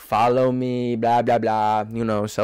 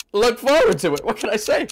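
very high voice, speaking through hiccups; 12 semitones higher than usual. Recommending an upcoming video, then talking with hiccups. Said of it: "I have hiccups".

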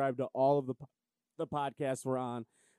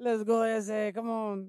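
mocking put-on cartoon mouse voice, higher; 8 semitones higher than usual. Imitating how the other player sounded: drunk Speedy Gonzalez voice. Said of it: "You sound like a mixture between, like, a drunk Speedy Gonzalez".

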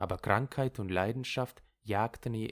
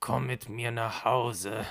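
strange, raspy, hoarse, toneless monotone. Reading a husband's words to his wife: oddly hoarse voice. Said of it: "Mit einer komisch heiseren Stimme sagte er".

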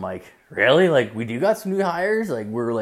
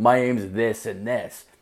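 mock slowed-down speech. Retelling telling someone a last name: imitating own slowed-down speech. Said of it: "I slowed it down".

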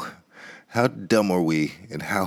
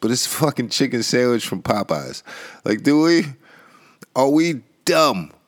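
slow, drawn-out, high-pitched yelling; 5 semitones higher, 4 dB louder than usual. Ranting at the people he is addressing, yelling. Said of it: "I'm sorry for yelling".

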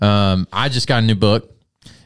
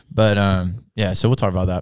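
ordinary talk

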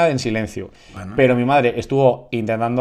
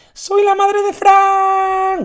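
put-on very high, very slow, bossy, drawn-out yell; 4 dB louder than usual. Retelling how a mother burst into a party: imitating a shouting mother. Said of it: "entró mi madre gritando".

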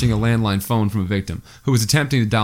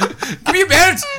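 mock yelling, higher; 3 dB louder than usual. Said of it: "began yelling at the resident to fight him".

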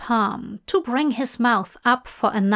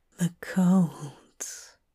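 low, hushed, soft whisper; 5 semitones lower, 5 dB quieter than usual. Narrator reads Dream answering Hop's question, whispering. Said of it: "Dream whispered".

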